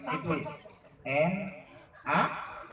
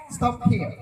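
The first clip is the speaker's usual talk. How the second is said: American style stop here. Shown as a demonstration. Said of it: "Masih kedengaran herenya kan?".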